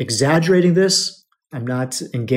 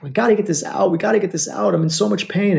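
mildly acted pain, pitched up; retold near-scream; 5 semitones higher than usual. Friend begging for the eye to be cleared, retold near-scream. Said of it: "She's almost screaming".

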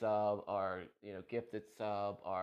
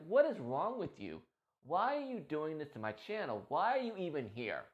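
upset rant; 6 semitones higher, 3 dB louder than usual. Retold or imitated. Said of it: "I get so upset".

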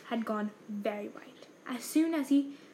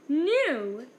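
shriek; 3 semitones higher, 6 dB louder than usual. A narrator's reading. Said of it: "shrieked Aunt Petunia".

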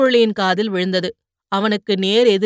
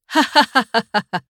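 hearty laugh. Acted. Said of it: "கலகலவென்று சிரித்தான்".

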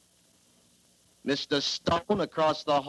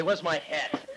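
ordinary delivery

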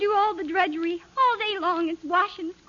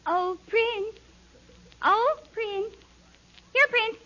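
high calling to the prince; 5 semitones higher than usual. Acted. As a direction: call him from afar, sweetly. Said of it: "the princess is calling to her prince".

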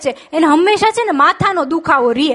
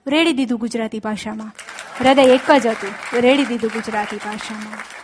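poem recital. Shown as a demonstration. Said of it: "પ્રણવ પંડ્યાની મને ગમતી એક પંક્તિ".

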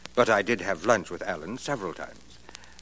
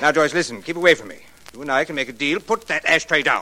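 louder and higher, backing away in panic; frightened pleading; 5 semitones higher, 6 dB louder, faster than usual. Acted. Bartley begging Joyce to put the ashtray down, panicked. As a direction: plead with rising fear as she comes at you.

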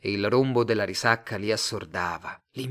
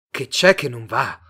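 voice starting to rise; 8 dB louder than usual. A narrator's reading. Simon echoing Mr Tate's question, voice rising. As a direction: throw "Che c'è che non va?" back, voice rising. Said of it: "cominciò ad alzarsi".

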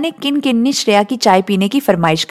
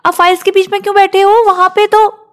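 high, quick, puzzled daughter asking; a young woman's startled question, pitched well up; surprised daughter; 10 semitones higher, 4 dB louder, faster than usual. Acted.

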